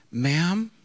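slow, drawn-out mock politeness; overly measured sweetness, stretching the words; mock sweetly. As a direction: say it slowly with pretend sweetness. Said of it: "I said it very sweetly".

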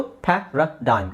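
ಪ್ಯಾರಾಡೈಮ್ slowly, syllable by syllable; careful pronunciation. Shown as a demonstration. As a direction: demonstrate ಪ್ಯಾರಾಡೈಮ್ in slow, separated parts. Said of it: "ಇದನ್ನ ಹೇಗೆ ಹೇಳೋದು".

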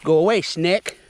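loud, firm shoo at a snake in the water. Real, not acted. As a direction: call out to scare it off. Shooing a snake away.

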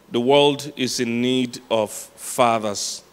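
slow, weighty repeat, stretching "world", "need" and "fathers"; solemn, drawn-out stress on "fathers"; emphatic. Real, not acted. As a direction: let "The world is in need of fathers" land word by word. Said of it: "I don't know how to emphasize this".

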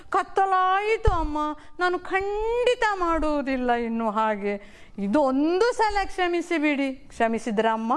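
put-on a boy begging through real-sounding tears; tearful pleading boy. Boy Ravi begging his mother for forgiveness, tearful. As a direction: plead with a catch of crying in the voice.

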